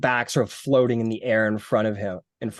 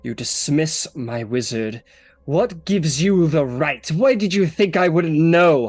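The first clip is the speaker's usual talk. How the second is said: angry queen confronting the smug demon; slow building anger; 2 semitones higher than usual. Acted. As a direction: start icy, end in a demand.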